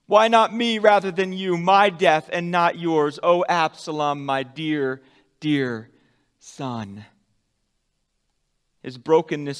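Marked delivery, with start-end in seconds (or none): 0.0-7.0 a father crying out for his son; desperate cry. Acted. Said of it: "he begins to cry out".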